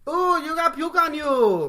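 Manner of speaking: put-on loud, very high Asian-accented caricature; ornery mock Asian accent. ER staffer questioning sick patient, ornery mock Asian accent. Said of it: "she is ornery as hell".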